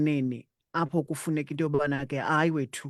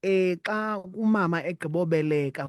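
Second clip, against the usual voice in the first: ordinary talk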